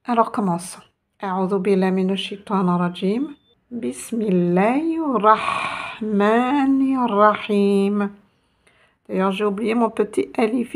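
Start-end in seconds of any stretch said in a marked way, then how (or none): 1.2-8.1 measured devotional recitation; Quranic recitation. Real, not acted. Teacher opens the lesson with the basmala, reciting. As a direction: recite the Arabic formula with stretched final syllables.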